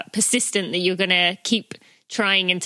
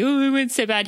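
higher-pitched, mild mock wail; mock crying; 6 semitones higher than usual. Imagined runner complaining after finishing a race, mock crying. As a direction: lightly imitate a tearful complaint. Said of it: "were crying, saying".

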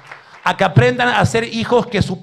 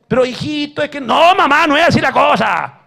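louder, higher pleading mom; a mother reasoning with her son; mock pleading mother; 8 semitones higher, 8 dB louder than usual.

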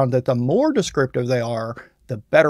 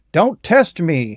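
slow, a little louder, a mild threat; hammed-up warning, more mild than shouted; mock angry warning; 3 semitones higher, 4 dB louder, slower than usual. Shown as a demonstration. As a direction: lean into it, measured and stern. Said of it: "he shouted angrily".

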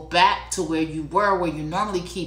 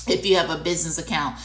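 normal talking voice

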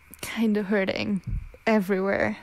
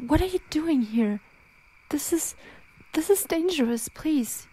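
alarmed warning; 5 semitones higher than usual. Acted. Startled, warns baby away from danger.

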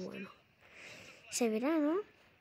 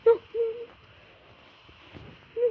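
anguished shout; 10 semitones higher, 4 dB louder, much faster than usual. Real, not acted. Goal conceded in football game.

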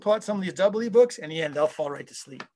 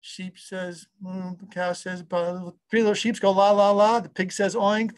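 dazed sing-song recital; slower than usual. Retold or imitated. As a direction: mumble the rhyme half asleep. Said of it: "you'll be going".

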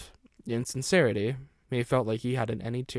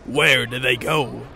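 frantic call; 9 dB louder than usual. Acted. Stephen's frantic question.

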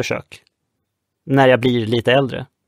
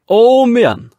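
very high, loud sea shout; heave call; 11 semitones higher, 7 dB louder, slower than usual. Acted. Red Nelson shouting the crew to heave again. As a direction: roar it once more.

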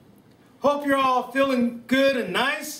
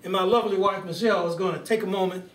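mild presidential speech voice with stately pauses; Barack Obama impression; 2 semitones lower than usual. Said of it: "Thank you, Barack".

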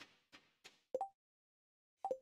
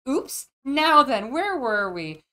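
mock innocent oops; 3 semitones higher, 4 dB louder, slower than usual. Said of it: "And it's like".

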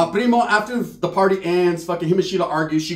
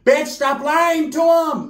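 a touch of a snapping aunt; 9 semitones higher, much slower than usual. Retold or imitated. Tia yells at ex.

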